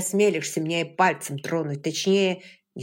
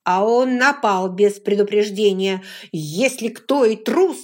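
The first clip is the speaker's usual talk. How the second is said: louder, slowing into the trailing-off; heated defence; 3 semitones higher, 9 dB louder than usual. A narrator's reading. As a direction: push back hard, then trail off. William defends himself loudly.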